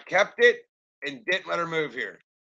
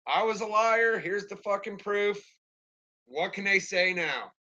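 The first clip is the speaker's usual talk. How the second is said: gleeful vindication; 5 semitones higher, 4 dB louder than usual. Retold or imitated. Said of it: "I'm like".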